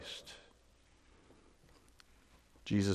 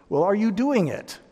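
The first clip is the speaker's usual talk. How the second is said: pointed challenge; 9 semitones higher, 3 dB louder than usual. Real, not acted. Challenging the congregation.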